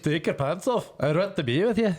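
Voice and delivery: high mock Scottish accent; hammed-up Scottish wooing; Mel Gibson. Joking as the film's hero seducing, high mock Scottish. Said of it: "Mel Gibson had a pretty good Scottish accent".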